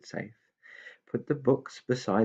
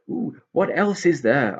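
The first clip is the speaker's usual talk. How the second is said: eager pixie; 7 semitones higher, 6 dB louder than usual. Acted. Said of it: "asked Binky".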